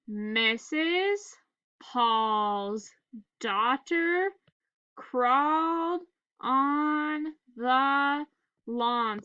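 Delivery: word by word with pauses; staccato. Shown as a demonstration. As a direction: read slowly, one word at a time. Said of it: "Let's read it together".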